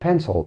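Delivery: pencil said alone, slowly; clear word demo. Shown as a demonstration. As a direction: model pencil for learners. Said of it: "كما في كلمة pencil".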